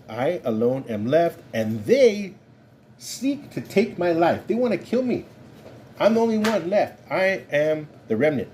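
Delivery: a prophet pleading that he's alone; despairing Elijah. Acted. Elijah's despairing complaint voiced.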